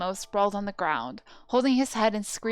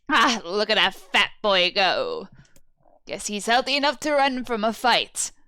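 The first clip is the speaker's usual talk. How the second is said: mocking old woman; 6 dB louder than usual. Old woman jeering as the bullies run, loud. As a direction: jeer at the fleeing boy.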